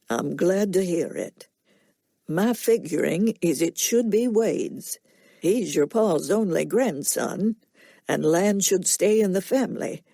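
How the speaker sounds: calm Southern farmer, plain and steady; soft-spoken drawl. Acted. Will asks Scarlett to leave Wade be, soft-spoken drawl. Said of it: "Will's soft-spoken nasal drawl".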